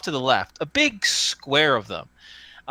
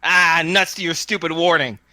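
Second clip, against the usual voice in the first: louder, irritated brush-off; angry dog boy; 3 semitones higher, 5 dB louder than usual. Acted. Dog boy defying the terminal, irritated outburst. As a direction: throw the warning back with mild anger. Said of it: "says the dog boy".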